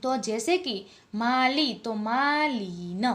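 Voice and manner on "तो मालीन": मालीन said slowly, marking ईन; slow teaching demo. Shown as a demonstration. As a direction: stretch मालीन for the class. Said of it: "ઈ નો ઉચ્ચાર કરી અને ન".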